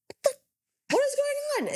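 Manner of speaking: high, startled what is going on; retold surprise. Mom hearing TV go on, surprised. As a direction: caught off guard by the TV. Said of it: "and I'm like".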